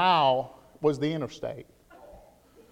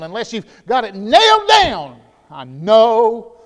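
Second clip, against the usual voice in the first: preaching shout; 7 semitones higher, 16 dB louder, slower than usual. Acted. Preacher's peak of emphasis.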